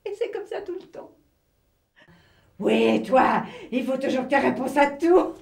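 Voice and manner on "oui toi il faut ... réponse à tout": loud quarrelling outburst; accusing retort. Acted. Sister in a row over the call, loud accusing retort. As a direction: throw it back loudly, as in a row.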